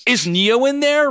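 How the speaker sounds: slow, high, loud scream; sudden scream. A narrator's reading. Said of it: "Ryan suddenly screamed".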